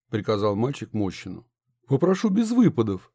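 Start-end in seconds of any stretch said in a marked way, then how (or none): 1.9-3.1 angered. A narrator's reading. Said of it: "рассердился глава города".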